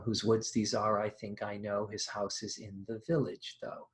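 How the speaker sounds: quiet recitation of the opening; poem recitation. Shown as a demonstration. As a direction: read the Frost lines evenly, as verse. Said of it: "that poem goes".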